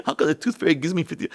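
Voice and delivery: put-on high, questioning kid voice; Kea. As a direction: imitate a child puzzling it out. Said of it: "Kea came in".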